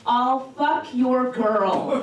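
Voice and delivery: slow, with a laugh, leaning hard on fuck; drawn-out punchline with a laugh. Pretend. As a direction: land "fuck" slowly through a laugh. Punchline read from the dust.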